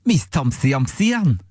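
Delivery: backwards speech. Shown as a demonstration. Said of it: "we have to mimic the noise of it backwards".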